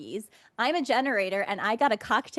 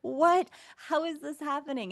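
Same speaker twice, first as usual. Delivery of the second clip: retold amazed disbelief; 6 semitones higher than usual.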